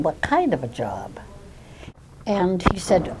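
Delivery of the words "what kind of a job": aghast whisper. Retold or imitated. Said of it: "was aghast".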